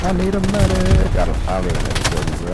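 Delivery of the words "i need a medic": high, slow call for a medic; man down shout. Real, not acted. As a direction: shout for help across the field. Downed player calling for help.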